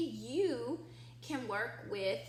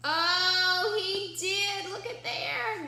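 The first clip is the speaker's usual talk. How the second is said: louder singsong delight; higher, louder sung "oh, he did"; excited reveal; 7 semitones higher, 7 dB louder, slower than usual. Acted. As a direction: share the happy surprise with the kids. Reveals the surprise.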